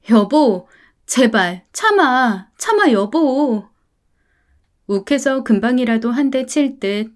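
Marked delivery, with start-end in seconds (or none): 0.1-3.7 slow, desperate pleading; pleading wife. Acted. Wife begging her husband to calm down, slow. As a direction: beg him to hold back.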